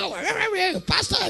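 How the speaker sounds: mock London talk. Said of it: "I said, "Talk well".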